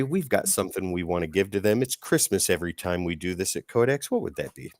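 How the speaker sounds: low, smooth seductive voice; sultry voice. Acted. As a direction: purr it like a late-night radio host. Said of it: "such a sultry voice like that".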